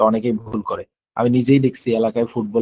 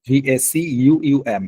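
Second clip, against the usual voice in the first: ভিএসি ইউইউএম spelled very slowly, letter by letter; very slow teacher dictation of ভিএসি ইউইউএম; slow spelling; much slower than usual. Shown as a demonstration. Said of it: "এই হচ্ছে ভ্যাকুয়াম".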